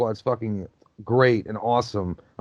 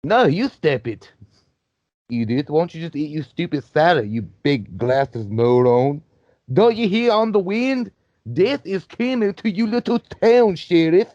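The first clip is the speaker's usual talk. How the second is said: higher, slower cartoon dog voice; the Subway sandwich guy voice for a dog, drawn out and pitched up; goofy dog voice; 4 semitones higher than usual. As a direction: voice the dog as a slow, mocking menace. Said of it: "the voice I use for dogs".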